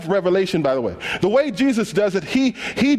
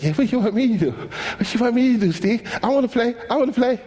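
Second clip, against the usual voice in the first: put-on higher pleading kid voice; eager little kid; 3 semitones higher than usual. Little kid begging Steve for the ball, higher eager voice. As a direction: beg to play like a small boy. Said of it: "A little dude like".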